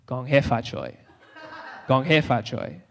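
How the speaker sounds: low, hushed mock incantation; quiet, ominous chant played for laughs; spell-casting. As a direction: intone it softly like a curse. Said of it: "she's casting spells".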